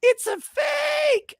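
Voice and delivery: booming high theatrical senator line; pompous senator oratory. Acted. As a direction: declare it like an outraged senator. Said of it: "in Senator Vrenak's voice".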